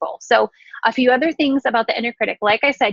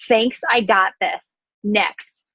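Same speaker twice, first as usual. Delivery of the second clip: calm dismissal; much slower than usual. Pretend. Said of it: "notice and name it".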